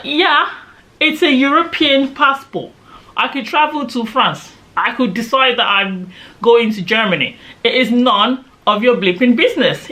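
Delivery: high-pitched, indignant insistence; indignant retort. Retold or imitated. Traveller telling off the immigration officer, indignant retort.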